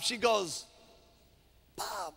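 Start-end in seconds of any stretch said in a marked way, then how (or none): 1.8-2.1 high, very soft woman's voice; small high-pitched voice; Mary. Acted. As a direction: call out softly and timidly in a high pitch. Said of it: "she says to, to Bob".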